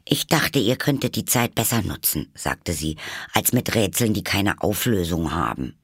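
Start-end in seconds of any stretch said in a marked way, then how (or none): 0.0-2.3 higher-pitched reproach, settling; mildly put out. Acted. Alice reproaches them over the unanswerable riddle, mildly put out. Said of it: "Alice seufzte verstimmt". 3.3-5.8 understated displeased reproach; mildly put out. Acted. Alice faults the pointless riddles, mildly displeased. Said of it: "Alice seufzte verstimmt".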